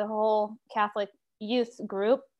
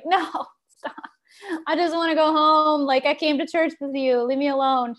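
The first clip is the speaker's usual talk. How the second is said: high, louder mock teenage complaint; imitated teen whine, pitched up; whiny protest; 5 semitones higher, 4 dB louder than usual. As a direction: act out a kid begging mom to back off. Retold teenage protest to mom.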